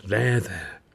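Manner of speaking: gentle, hushed comfort; soothing. A narrator's reading. Mother calming her sick boy, gentle and soothing. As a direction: soothe a child who is unwell. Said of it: "calming him down".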